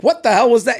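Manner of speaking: incredulous uncle. Retold or imitated. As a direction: react like a stunned uncle. Uncle voiced in story.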